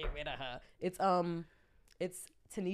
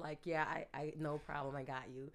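polished professional voice, softer; proper code-switch voice; 3 dB quieter than usual. Retold or imitated. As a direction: put on the educated voice. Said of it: "so I have to talk like this".

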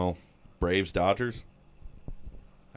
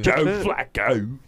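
put-on Baltimore accent; 5 dB louder, slower than usual. Baltimore voice laughing.

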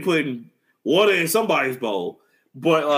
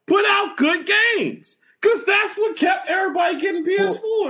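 emphatic shout; 13 semitones higher than usual. Real, not acted. Heated gaming argument with cohost.

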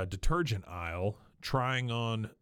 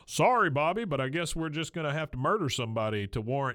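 hammed-up yell, then settling; mock shout; 3 semitones higher than usual. Hank shouting at Peggy to get her attention. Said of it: "he starts shouting at her".

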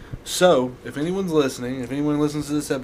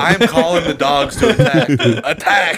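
mock battle cry; 6 dB louder than usual. Rallying the dogs to attack.

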